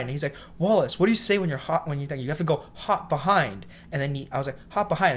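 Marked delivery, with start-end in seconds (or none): 0.6-3.7 imitated boss correcting. 4.7-5.1 kitchen call-out. Retold or imitated. Repeats the warning nobody heeds.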